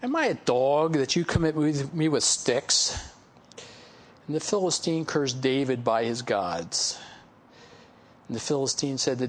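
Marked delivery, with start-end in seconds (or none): 0.0-3.0 slow, scornful taunt from a giant warrior; mocking trash talk. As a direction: drag out the sneer at the boy. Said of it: "the Philistine starts to trash talk".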